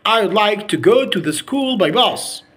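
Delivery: American-style "I'd" run together; American accent. Shown as a demonstration. Teacher showing how Americans say it, American accent. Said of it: "In the American accent, they say".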